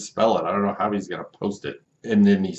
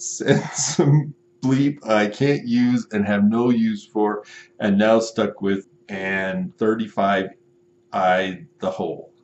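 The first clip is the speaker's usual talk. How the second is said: hammed-up outrage at the runaround; mock furious customer; 5 dB louder than usual. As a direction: buyer ranting at the seller, hammed-up fury. Customer message continued.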